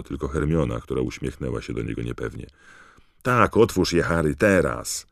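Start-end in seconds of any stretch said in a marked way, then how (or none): 3.2-5.1 eager calling out. Acted. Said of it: "rozległo się kilka głosów".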